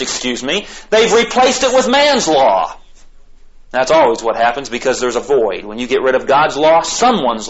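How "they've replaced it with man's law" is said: high, slow, emphatic preaching; impassioned preaching. Real, not acted. Preacher condemning man's replacement of God's law, impassioned. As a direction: drive it home slowly, pitched high.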